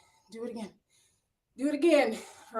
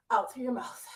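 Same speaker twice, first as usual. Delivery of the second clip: whispered cue. Real, not acted. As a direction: breathe the words out in a whisper. Cueing breathing during exercise.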